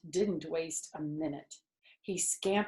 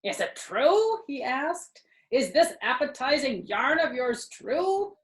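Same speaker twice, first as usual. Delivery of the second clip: higher, eager rat asking; a lightly voiced rat hungry for more; 9 semitones higher than usual. A narrator's reading. Templeton asking the sheep, eager and higher.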